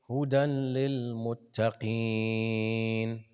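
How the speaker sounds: تلاوة مرتلة; Quran recitation. Shown as a demonstration.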